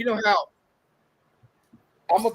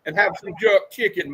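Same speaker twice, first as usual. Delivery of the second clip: a hammed-up Jamaican accent, higher and louder; mock Jamaican accent; 6 semitones higher, 5 dB louder than usual. Showing up the movie's accent, hammed-up Jamaican accent. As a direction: lay on a cartoon Jamaican accent for laughs. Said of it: "I could do a better Jamaican accent than this".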